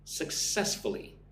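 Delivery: Successfully slightly slow, stress on the second syllable; model pronunciation. Shown as a demonstration. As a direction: say Successfully carefully, weight on cess. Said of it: "Put the emphasis on the second syllable".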